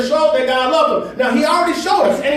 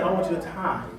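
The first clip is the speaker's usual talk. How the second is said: voice of God; 7 semitones lower, 9 dB quieter than usual. Acted. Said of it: "And God said".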